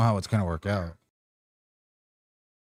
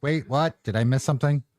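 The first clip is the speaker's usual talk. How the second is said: retold puzzled double-take, pitched up; mock confusion; 3 semitones higher than usual. Streamer retelling a surprise in Marty's DMs, mock confused. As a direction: replay your own baffled reaction, lifting the questions. Acting out own puzzled reaction.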